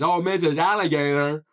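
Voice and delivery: goofy frog asking, each word enunciated; big-mouthed frog. Acted. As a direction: mouth stretched wide, exaggerated vowels. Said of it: "the big-mouthed frog continues".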